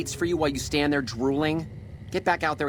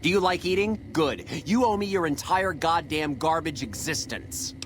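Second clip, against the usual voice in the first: furious chef rant; 5 semitones higher than usual. Acted. Chef rants at the new kitchen hand, furious and high. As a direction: rage like a chef who thinks he's a god.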